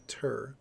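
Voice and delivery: "ter" dropped after the stressed "ba"; "ter" as the weak second syllable; unstressed syllable. Shown as a demonstration. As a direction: let "ter" fall away unemphasized. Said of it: "tone of voice goes up".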